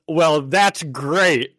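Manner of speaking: mildly hammed-up sarcasm, dragged out slowly; mock sarcastic retort. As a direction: stretch out a mock-approving retort. Retelling an upset girlfriend's retort.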